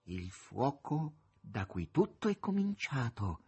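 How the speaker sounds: slow, portentous declaration sinking low and soft; solemn pronouncement. A narrator's reading. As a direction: proclaim it slowly, dropping at the close. Azazello solemnly announces the ending.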